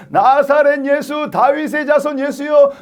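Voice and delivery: high-pitched beseeching cry. Acted. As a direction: keep calling Jesus, stretching the words. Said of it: "더 크게 소리 질러서 이르되".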